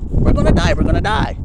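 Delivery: breathless high shriek of panic; whisper-shriek like men on a sinking boat; panicked disciples. Retold or imitated. Disciples on the boat in the storm, high panicked whisper-shriek. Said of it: "the men on the boat".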